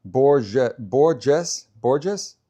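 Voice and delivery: Borges as BOR-zhess, rising questioningly; practising the pronunciation. Shown as a demonstration. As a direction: sound out Borges as BOR-zhess, checking each try. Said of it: "the only one teaching me properly".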